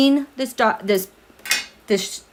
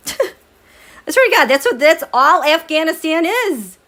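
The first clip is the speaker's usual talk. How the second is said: laughing exasperation; 6 semitones higher than usual. Real, not acted.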